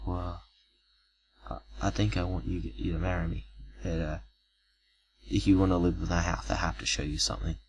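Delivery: put-on man quietly asking the girl to marry him; quiet proposal. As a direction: say it softly, almost confiding a secret. Nervous proposal, then secret.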